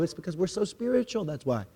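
soft, hushed smug boast; smug mock. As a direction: murmur it, self-satisfied. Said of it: "And we'd all go".

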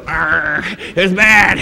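a light pirate growl; lightly voiced pirate. Pastor joking as a one-eyed churchgoer, mock pirate. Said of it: "looking like a pirate".

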